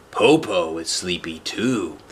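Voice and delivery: mock sleepy wolf. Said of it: "pretended to be sleepy".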